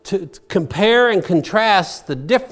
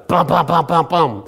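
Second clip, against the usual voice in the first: knocking sound. Retold or imitated. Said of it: "Guy just keeps on knocking".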